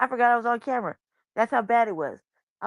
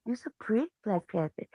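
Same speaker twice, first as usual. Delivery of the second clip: put-on soft, low baby talk; low cooing; 7 dB quieter than usual. Soothing the baby panther in the arms, low cooing. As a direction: coo it quietly, dropping lower at the end. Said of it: "talking to her real low".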